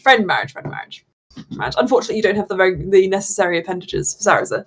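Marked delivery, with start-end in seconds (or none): 0.5-1.1 breathy whisper, no voice; just whisper it back to yourself. Shown as a demonstration. Repeating the phrase, now unvoiced.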